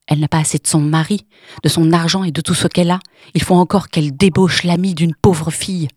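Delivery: loud, hard and unrestrained accusation; fast, furious yelling at the end; harsh angry shout. Acted. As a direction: catch her out and shout it in her face. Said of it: "cria d'une voix dure et sans retenue".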